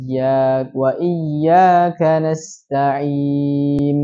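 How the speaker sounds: nasta'in read very slowly ending as nasta'im; nun turned to mim. Shown as a demonstration. Teacher shows students nun wrongly read as mim. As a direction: close nasta'in on an m sound instead of n. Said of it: "diganti dengan huruf mim".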